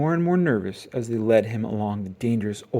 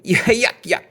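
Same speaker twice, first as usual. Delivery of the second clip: mock chuckle; 11 semitones higher, 7 dB louder, slower than usual. A narrator's reading. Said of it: "chuckling at his own joke".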